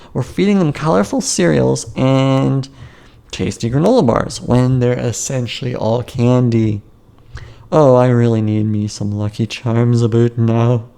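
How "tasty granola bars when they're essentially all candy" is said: ordinary delivery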